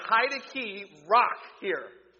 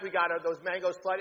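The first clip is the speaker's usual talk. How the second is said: ordinary talk, nothing marked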